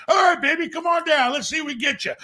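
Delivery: high, loud slick celebrity agent; smooth realtor voice. Pretend. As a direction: play the eager agent greeting a star client. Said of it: "Jimmy, I need a house".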